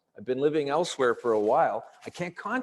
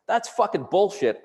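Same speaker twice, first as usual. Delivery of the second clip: retold indignant outburst, pitched up; angry objection; 6 semitones higher, 4 dB louder than usual. Patient confronting a cop over his report, angry objection. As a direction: call out the lie forcefully.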